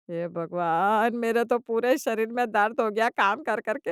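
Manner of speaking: hammed-up groaning complaint; self-pitying mother-in-law moan; dramatic lament. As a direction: wail about aches, dragging the opening words. Mother wails about aching body.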